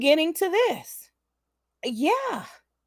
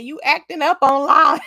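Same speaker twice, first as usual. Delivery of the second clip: taunting jab; 5 dB louder than usual. Retold or imitated. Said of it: "I taunted her again".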